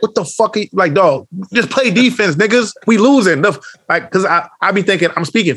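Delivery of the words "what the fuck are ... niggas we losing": raised, pushy mock rant at teammates; imitating his own heated mic call-out; retold mic rant. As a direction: bark orders over the mic, lightly hammed. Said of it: "I literally will hop on the mic".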